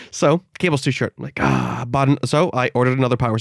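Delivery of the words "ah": low exasperated "ah"; deep, fed-up sigh of a groan; frustrated groan. Retold or imitated. Retelling frustration at short cable.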